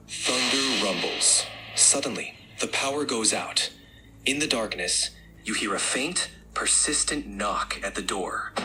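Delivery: suspenseful scary tale with long pauses; understated ominous storytelling; creepy horror narration. Acted. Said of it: "let's amp up the creepiness".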